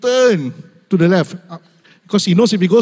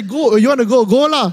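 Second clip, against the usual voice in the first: higher-pitched imitation of a wife; wife's mock permission; 6 semitones higher than usual. Wife telling her husband he can go, mock permission. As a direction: act out a wife pretending to allow it. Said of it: "Sometimes she say".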